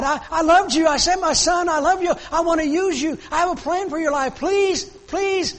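rising from pleading to high, loud, desperate begging; God pleading. Acted. Preacher voices God begging the congregation for their lives, desperate plea. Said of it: "That's God on his knees".

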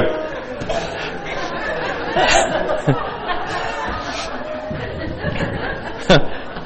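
long high airless laugh; high breathless laugh. Real, not acted. Preacher laughing at poor Peter after the failed catch, breathless high laugh. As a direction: let a long silent wheeze of a laugh out.

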